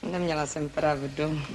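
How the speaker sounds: a soft, reluctant admission; grudging quiet retreat; quiet grudging concession. Acted. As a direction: say it low and soft, conceding through clenched pride. Sulky concession in quarrel.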